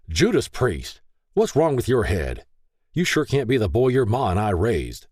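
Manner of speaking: loud, angry father yelling; hollering. A narrator's reading. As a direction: holler it at your son. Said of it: "Paul hollered".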